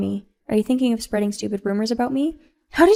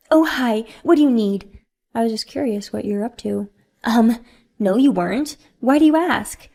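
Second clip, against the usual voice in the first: flustered Sophia; 5 dB louder than usual. Acted. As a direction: cover up being caught. Sophia caught in the house.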